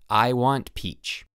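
slow, even toy-mask voice; talking baby toy. Acted. Toy mask answers the parent in a slow, even voice. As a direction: spell it out slowly like a gadget.

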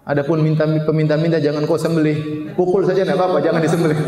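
ordinary talk, nothing marked

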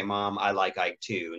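slow, easy, going along with it; gentle agreement. Shown as a demonstration. Caregiver humoring mother about Eisenhower, slow and gentle. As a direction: agree kindly with no correction. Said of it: "you say".

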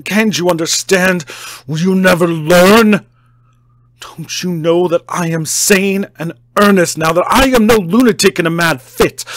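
high, loud desperate shouting; frantic shouted pleading. A narrator's reading. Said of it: "torrent of entreaty".

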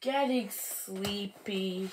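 soft, slow drowsy voice; sleepy. Acted. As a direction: fade into winter sleep. Tree dozing for winter.

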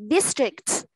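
district said quickly in one clipped go; fast model. Shown as a demonstration. Teacher reads district fast for the class. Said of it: "Mình đọc nhanh này".

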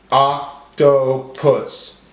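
oc... to... pus, very slow; broken into syllables. Shown as a demonstration. Teacher helping class count syllables, slowly syllable by syllable. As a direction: separate each syllable with a gap. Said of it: "break up our words into syllables".

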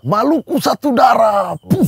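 slow rallying shout; shouting the film line before jumping; battle cry. Retold or imitated. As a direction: call it out as you jump.

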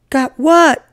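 high, loud disbelieving question; astonished mother. Acted. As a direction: ask it in sheer astonishment. Mother astonished at the boy's news.

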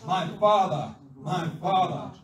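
loud, fervent prophet's cry; preacher's impassioned cry. Acted. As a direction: call out loudly after a departing master. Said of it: "He cried".

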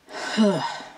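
a heavy breathless sigh, catching her breath. Real, not acted. Vlogger catching her breath mid-explanation, sighing. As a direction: she sighs, winded, before apologising to viewers. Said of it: "sorry, I'm kinda out of breath".

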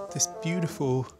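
usual speaking voice

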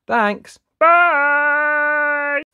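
cheerful bye. Real, not acted. Cheerful sign-off to viewers.

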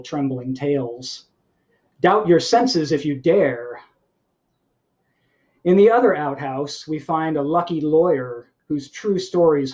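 measured poetry-reading cadence, phrase by phrase; deliberate recital with pauses between the images. Acted. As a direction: read your poem aloud to an audience, letting each line fall at its end. Reads own poem aloud to audience.

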